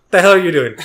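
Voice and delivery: mock scolding mom. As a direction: lightly imitate an annoyed mother. Mom retold scolding the dad.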